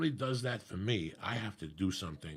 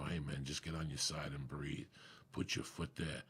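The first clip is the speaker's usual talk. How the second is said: mild reassurance; 7 semitones lower, 8 dB quieter than usual. Retold or imitated. Acting a reassuring training partner.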